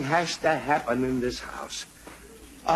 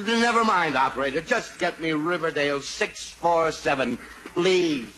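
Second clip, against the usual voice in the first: raised voice, patience gone; exasperated. Acted. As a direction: cut it off and demand the number, ending on a forceful please. Exasperated father gives up explaining.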